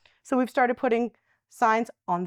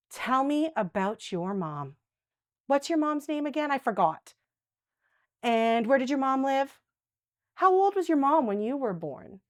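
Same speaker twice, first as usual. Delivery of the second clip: gentle redirection; 3 semitones higher than usual. Shown as a demonstration. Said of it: "caregiver demo redirecting conversation".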